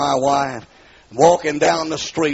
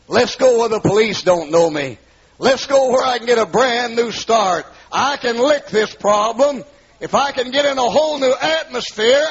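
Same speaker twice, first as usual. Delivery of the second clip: pleading, climbing higher and louder; rising plea; 9 semitones higher, 3 dB louder than usual. Retold or imitated. Husband begging his wife to move away, rising plea. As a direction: beg her for a fresh start, building up.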